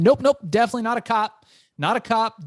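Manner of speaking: quick, high, nervous not-a-cop babble; panicky denial. Retold or imitated. Nervous kid to a scary drug dealer, rushing his denial. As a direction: blurt it out fast to calm the dealer.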